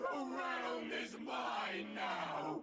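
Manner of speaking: breathy, high-pitched demon voice. Voicing a demon who taunts the adventurers: high, breathy voice. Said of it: "the demon's nauseating laughter".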